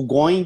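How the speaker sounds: "going" squeezed to one syllable, "goyn-g"; mistaken going. Shown as a demonstration. Teacher recalling his old error, mispronounced "going". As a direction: say "going" wrongly as GOYNG. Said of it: "que eu falava going".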